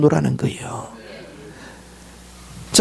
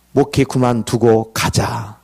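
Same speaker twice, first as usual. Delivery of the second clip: resigned; 6 semitones lower, slower than usual. Acted. Acting out his urge to quit.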